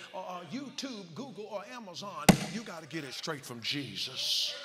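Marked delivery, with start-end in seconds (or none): 2.5-4.5 louder and slower, driving it home; slow preaching climax. Real, not acted. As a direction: land the climax of the sermon.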